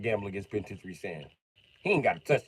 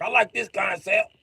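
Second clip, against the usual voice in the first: higher, slower mocking voice; 12 semitones higher, 7 dB louder, slower than usual. Sam trying the dice board, high slow mock voice. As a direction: put on a high silly voice for him. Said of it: "He was like".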